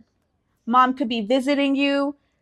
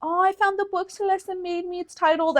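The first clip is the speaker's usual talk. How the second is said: lightly voiced sentimental mother, softer; soft, higher mom voice; imitating touched mom; 5 semitones higher, 6 dB quieter than usual. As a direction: raise it a little and coo softly. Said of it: "And then she's like".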